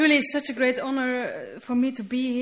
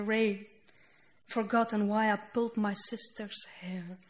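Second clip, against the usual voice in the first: poem reading. Acted. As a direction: let each line land, then pause. Reads her poem aloud.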